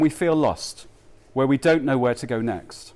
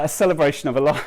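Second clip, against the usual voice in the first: laughing; 2 semitones higher, 4 dB louder, faster than usual. Real, not acted. Laughs at his tearful restart.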